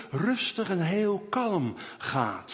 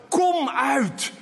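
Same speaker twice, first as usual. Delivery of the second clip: higher, louder commanding shout; loud call; 6 semitones higher, 3 dB louder than usual. Shown as a demonstration. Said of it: "Een luide stem is dan nodig".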